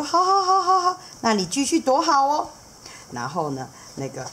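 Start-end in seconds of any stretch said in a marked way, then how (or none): 0.0-2.5 much higher, fast and chatty; eager seahorse dad. Acted. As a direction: rattle it off, knowing and playful. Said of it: "海马爸爸就说".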